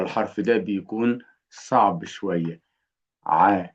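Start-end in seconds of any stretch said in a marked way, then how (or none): 3.3-3.7 short, isolated throat sound "ع"; letter-sound drill. Shown as a demonstration. Teacher drills a difficult letter for learners, isolated pharyngeal ع. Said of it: "نتدرب على صوته".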